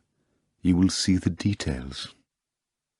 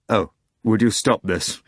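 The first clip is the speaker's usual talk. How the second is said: cried out; 3 dB louder than usual. A narrator's reading. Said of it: "Voland cried".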